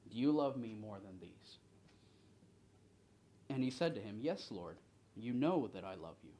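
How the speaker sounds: deliberate reading, firm openings to phrases; scripture reading. A narrator's reading. Leader reads Jesus questioning Simon Peter, deliberate scripture reading. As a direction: read the verse out, giving each phrase room.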